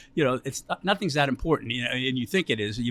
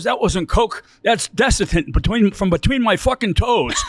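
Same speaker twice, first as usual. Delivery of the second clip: retold outburst; 5 semitones higher, 7 dB louder, slower than usual. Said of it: "he goes".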